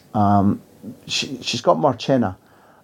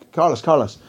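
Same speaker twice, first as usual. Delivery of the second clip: a hint of a sharp, cutting reporter, higher; lightly voiced piercing question from the back, pitched up; razor voice; 5 semitones higher than usual. Mexican journalist calling her question from the back, lightly razor-edged. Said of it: "she's got a razor voice".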